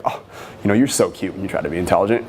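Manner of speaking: quick, light mock-condescension; playful teasing. Shown as a demonstration. Coach's good take of the line to a girl, playful. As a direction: tease it playfully. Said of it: "I said it playfully".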